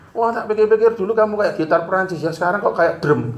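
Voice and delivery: high, teasing put-on voice; hammed-up joking jab; mock teasing. Teasing wife about her weight.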